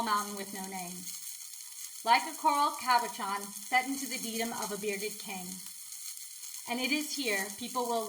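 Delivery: measured recital with pauses between lines; poem reading. Acted. Poet reading their own mountain poem to viewers, measured recital. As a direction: read your poem aloud, evenly and deliberately.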